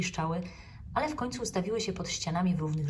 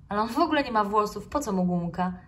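protesting; 3 semitones higher, 5 dB louder than usual. Acted. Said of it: "zaprotestował żuczek".

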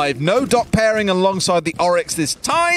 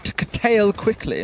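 put-on slowed posh-accent echo; mock posh accent; 3 semitones higher, slower than usual. Caster teasing co-caster about his accent, mock posh accent. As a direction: parrot it back in a posh accent. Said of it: "mocked my, my accent twice already".

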